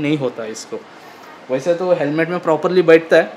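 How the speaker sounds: cloth over mouth; speaking while adjusting balaclava; through a face mask. Real, not acted. Seen 5: Balaclava fabric covers mouth most frames; briefly pulled down at 12.8.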